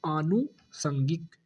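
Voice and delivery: आनुषंगिक drawn out slowly, the long आ held; slow model word. Shown as a demonstration. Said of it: "आनुषंगिक में बड़ा आ". (आनुषंगिक बहुत धीरे, लंबा आ)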